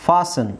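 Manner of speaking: "ಫಾಸನ್" as "faa-sun", no T; silent T. Shown as a demonstration. Teacher modelling fasten for students, silent T. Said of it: "ಇಲ್ಲಿ ಟಿ silent ಆಗುತ್ತೆ".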